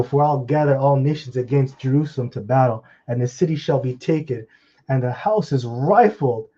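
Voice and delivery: punched, forceful Bible recitation; emphatic preacher's reading with stretched final words; scripture reading. Real, not acted. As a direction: read the verse out, slowing and swelling toward the end. Reads scripture aloud.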